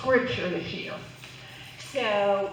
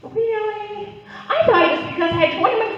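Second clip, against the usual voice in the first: mock surprise; 9 semitones higher than usual. Clown answers officer.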